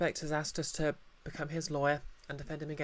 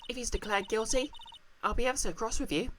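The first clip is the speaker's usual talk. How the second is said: higher, fast, sugary threat; sweetly menacing wife; 5 semitones higher, faster than usual. Acted. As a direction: smile while you threaten him.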